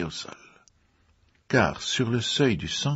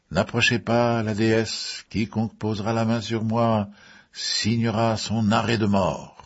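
solemn warning; 3 semitones higher than usual. A narrator's reading. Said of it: "lança-t-elle".

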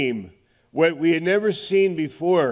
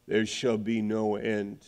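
hushed reflection; 5 semitones lower, 7 dB quieter than usual. Real, not acted. Hushed turn after scripture.

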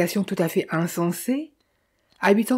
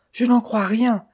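cried out; 4 semitones higher than usual. Acted. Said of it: "s'était écrié Philippe".

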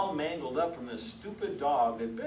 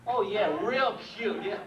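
mock agreement, heavily sarcastic; dripping sarcasm. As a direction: scoff at the idea with fake enthusiasm. Mocks people who find dogs cute.

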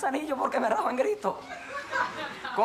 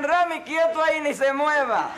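raised commanding voice, slowing at the end; mock military orders; 4 dB louder than usual. Officers ordering a soldier during maneuvers, mock commanding. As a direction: order him to stay put, building louder. Army superiors order him still.

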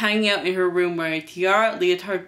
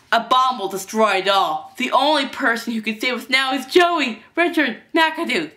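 higher-pitched playacting hero announcer; heroic make-believe; 5 semitones higher, 4 dB louder than usual. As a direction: proclaim yourself the world's last hope. Boy plays post-apocalyptic hero.

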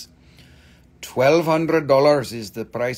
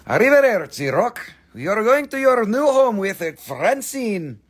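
excited; 9 semitones higher, 5 dB louder than usual. Real, not acted. Waving the rock off.

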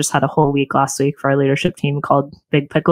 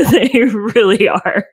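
laughing; 6 semitones higher, much slower than usual. Real, not acted. Laughs at her own joke.

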